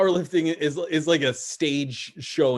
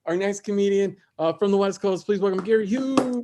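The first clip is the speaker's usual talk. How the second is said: comedy host introduction; 3 semitones higher than usual. Real, not acted. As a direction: bring the next comic on with a rising call. Host bringing on next comic.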